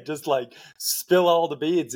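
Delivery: chuckling while she talks about chatterers; words bubbling with laughter; laughing through words. Real, not acted.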